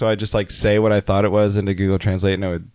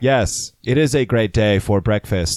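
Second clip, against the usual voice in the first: robot voice. Pretend. Continuing robot bit.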